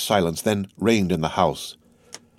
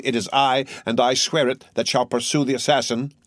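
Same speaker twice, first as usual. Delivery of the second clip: raised, relentless accusing voice; Morel's grim accusation; 4 semitones higher than usual. Acted. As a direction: hammer each charge home. Morel vows vengeance.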